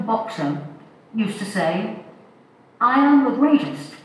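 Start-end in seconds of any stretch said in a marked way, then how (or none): 2.8-3.9 a bad boxer's accent, higher and louder, boasting; bad Muhammad Ali accent. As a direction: play a bad attempt at the boxer's accent, punching "am". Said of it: "That's a very bad accent".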